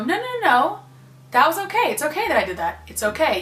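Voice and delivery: loving voice. Retold or imitated. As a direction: reassure yourself like a kind friend. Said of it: "loving voice".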